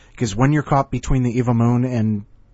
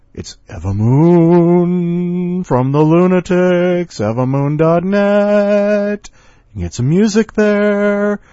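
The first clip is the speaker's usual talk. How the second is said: high, loud, slow announcer voice; stuck high pitch; 7 semitones higher, 7 dB louder, slower than usual. Real, not acted. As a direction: say it high and drawn out. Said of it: "why am I talking like this".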